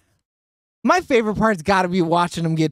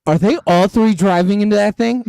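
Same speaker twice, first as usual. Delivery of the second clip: incredulous question; 2 semitones higher, 7 dB louder than usual. Retold or imitated. Retells own startled question to Alex.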